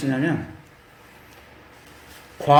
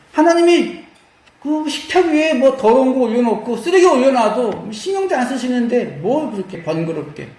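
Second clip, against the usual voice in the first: lightly acted dismissive sneer; mock scoffing; 6 semitones higher than usual. Sulking priests scoffing at God's table, lightly sneering. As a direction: scoff that it is all needless bother. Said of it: "코웃음 치면서".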